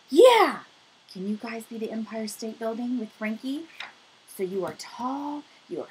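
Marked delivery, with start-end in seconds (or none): 0.1-0.6 excited cheer. Real, not acted. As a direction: shout it out to hype up the class. Cheering kids on as building.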